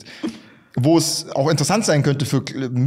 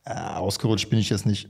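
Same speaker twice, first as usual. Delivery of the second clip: lachend leugnen; 6 semitones lower, 6 dB quieter than usual. Pretend. Gespielte Leugnung nach Ausrutscher.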